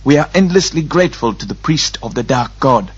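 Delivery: formal thanks in Murgo gutturals; ceremonious Murgo-accented pilgrim. A narrator's reading. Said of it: "Belgrath thanked him".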